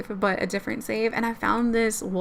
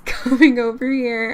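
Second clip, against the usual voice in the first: usual speaking voice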